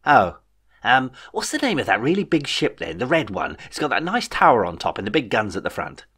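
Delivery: petulant young overlord, lightly voiced; a hint of a spoiled king; childish king voice.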